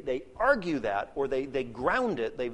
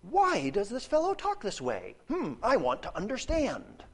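higher, puzzled questioning voice; lightly voiced puzzled onlooker; mock curious asker; 6 semitones higher than usual. Shown as a demonstration. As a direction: play it as a genuinely curious question. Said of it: "The scribes are not saying".

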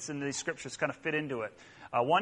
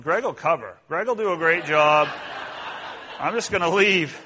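half-joking escape plan; 2 semitones higher, 6 dB louder than usual. Retold or imitated. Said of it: "I'm like".

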